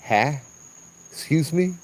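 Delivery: offended spirit. Retold or imitated. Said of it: "it kinda went".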